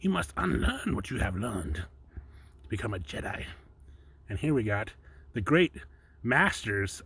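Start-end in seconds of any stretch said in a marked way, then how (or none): 0.0-3.5 slow, lightly voiced Yoda; a hint of the wise old Jedi master; softer, slow, half-hearted Yoda. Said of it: "That's the famous Yoda quote there".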